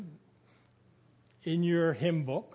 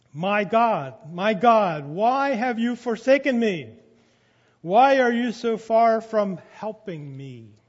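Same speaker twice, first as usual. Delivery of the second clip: raised, anguished cry from the cross; loud cry; 7 dB louder than usual. Acted. Jesus crying out loud to God from the cross. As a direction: call it out loud, pleading. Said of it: "Why he had to speak in a loud voice".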